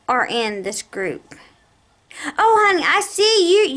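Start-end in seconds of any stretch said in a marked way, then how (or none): 2.4-3.8 higher, sing-song mock clerk; lightly voiced chirpy clerk; mimicking the clerk. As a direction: play the clerk sweetly noticing her file. Retelling the clerk reading her record.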